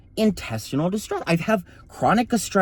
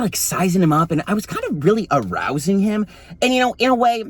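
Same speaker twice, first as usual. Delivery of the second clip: a lightly lower, sexually ambiguous dude voice; blue collar voice; 4 semitones lower than usual. Shown as a demonstration. Telling the story of the nurse in a put-on dude voice. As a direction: drop down like a sleazy guy sizing someone up. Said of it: "I'm gonna go out of it now".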